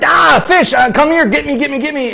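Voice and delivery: high, loud hammed-up pleading; mock frantic call. Old-style marketer begging fish to come, mock loud plea. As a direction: flail and beg the fish to bite.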